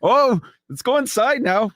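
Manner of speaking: put-on high, excited Canadian accent with eh. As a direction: do a hammed-up Canadian, eh. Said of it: "my Canadian accent".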